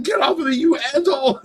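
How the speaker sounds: high-pitched retold outburst; mock angry. Tracy on the ground to the licking dog, mock angry. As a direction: imitate her fed-up yelp at the dog. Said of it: "she's so mad".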